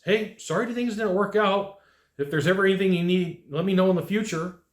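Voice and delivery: gracious farewell to angry customer; nice. Shown as a demonstration. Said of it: "you walk away nice".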